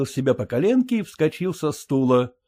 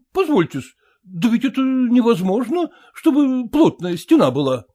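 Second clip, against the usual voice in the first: higher, deferential worker voice; humble worker; 9 semitones higher, 3 dB louder than usual. A narrator's reading. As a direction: plead the point obsequiously. Stacker objects humbly. (кладчик почтительно возражает)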